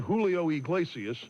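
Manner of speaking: the singer's name with an American accent; American accent Spanish. Shown as a demonstration. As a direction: the surname said the gringo way, ig-LAY-see-us. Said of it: "Instead of".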